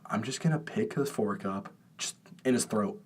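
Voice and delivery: low, quiet, deadpan threat; quiet menace. Retold or imitated. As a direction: mutter it darkly under your breath. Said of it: "I'm like".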